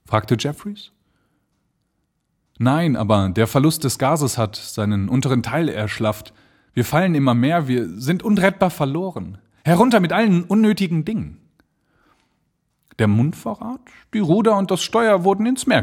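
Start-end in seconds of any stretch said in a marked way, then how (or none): 2.6-11.4 steigert sich zu hohem, schnellem Befehl; alarmed balloonist. Acted. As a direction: wird gegen Ende höher und hastiger. Balloon falling, orders to drop things. (Blanchard zu Jeffries, zunehmend alarmiert)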